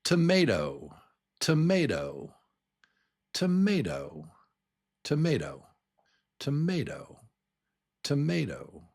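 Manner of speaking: "tomato" in one go, peaking on the middle MAY; natural word stress. Shown as a demonstration. Teacher has learners listen, "tomato" naturally with middle stress. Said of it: "I'll just say it naturally".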